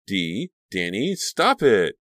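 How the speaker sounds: high loud cry to stop; yelling. Acted. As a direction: shout at them to stop. Friend yelling to stop fight.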